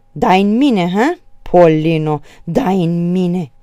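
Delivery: loud, slow, heaving outrage; panting. A narrator's reading. Brother outraged at his sister's slap, panting. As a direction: gasp the words out angrily. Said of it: "gâfâi el".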